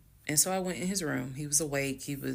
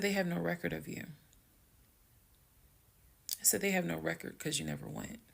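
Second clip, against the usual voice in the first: soft, matter-of-fact confrontation; calm, just stating; 3 semitones higher, 5 dB quieter, faster than usual. Retold or imitated. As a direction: state it quietly as plain fact. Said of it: "I'm very calm".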